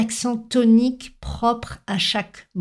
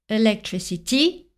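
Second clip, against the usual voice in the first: electricity in a French accent, syllables even, ending lifted. Shown as a demonstration. Teacher imitating a French speaker's English, French-accented electricity. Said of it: "Si un Français prononce".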